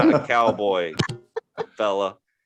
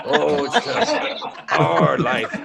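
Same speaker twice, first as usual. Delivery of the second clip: slow sarcastic pity; drawn-out mock sorrow; sarcastic condolence; mock sympathy; 5 semitones higher, much slower than usual. Mocking sympathy.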